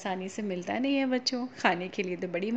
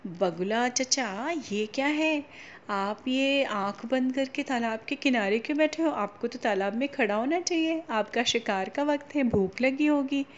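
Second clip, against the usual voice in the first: curious crab; 2 semitones higher than usual. Acted. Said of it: "बहुत curious हुआ".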